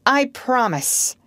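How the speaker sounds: earnest pledge to a leader; loyal. A narrator's reading. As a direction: promise it loyally, taking your time. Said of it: "John said loyally".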